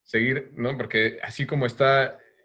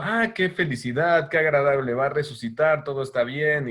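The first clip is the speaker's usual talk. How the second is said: lightly raised, sing-song mock cheer; mock cheerful; 2 semitones higher than usual. Therapist mocking carefree Virgin at the cross, mildly hammed cheer. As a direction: play the serene mother as falsely happy, a little up.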